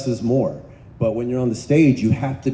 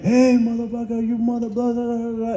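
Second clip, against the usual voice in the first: lightly voiced yelling, higher pitch; mock cussing out; 10 semitones higher than usual. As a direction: play a co-star cursing you out in character. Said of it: "just cussing me out".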